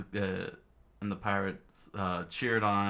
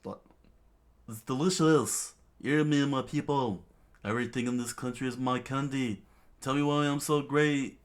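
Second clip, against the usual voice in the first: high, loud, self-satisfied king; gloating cheer; 6 semitones higher, 4 dB louder than usual. Acted. King gloating to his people after a feast, gloating cheer. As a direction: crow it out to your subjects. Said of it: "with a big cheer".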